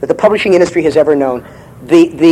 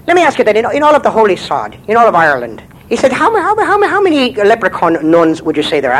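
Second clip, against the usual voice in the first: leprechaun voice; 3 semitones higher than usual. Acted. Leprechaun asks nun.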